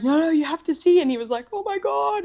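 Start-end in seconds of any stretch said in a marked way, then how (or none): 0.0-1.0 higher and louder, eager insistence; won't take no, so thrilled; excited insisting. Retold or imitated. Insisting Jack look at the baby now, excited. 1.5-2.2 much higher, awestruck exclamation; overwhelmed wonder at the sight; amazed gasp. Retold or imitated. Jack seeing his baby's head, amazed.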